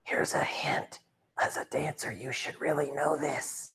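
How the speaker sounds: hushed, drawn-out stage whisper; soft conspiratorial hint. Pretend. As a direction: whisper it like a secret clue.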